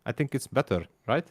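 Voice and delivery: light Hungarian accent, words read as spelt; a hint of heavy Hungarian accent; mild Hungarian accent for fun; mock Hungarian accent. Shown as a demonstration. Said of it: "let me try this".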